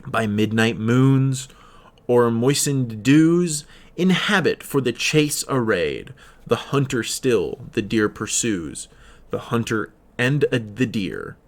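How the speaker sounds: slow, measured reading of verse; poem recitation. Acted. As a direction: read the poem with weight and pauses. Reads a poem aloud.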